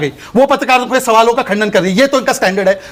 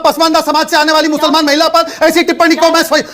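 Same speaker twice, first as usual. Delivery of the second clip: indignant raised voice; 5 semitones higher than usual. Real, not acted. Heated protest over remark on mother.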